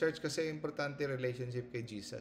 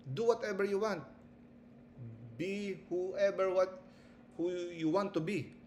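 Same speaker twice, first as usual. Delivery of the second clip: tempting devil; 4 semitones higher than usual. Acted. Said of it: "Sabihin niya".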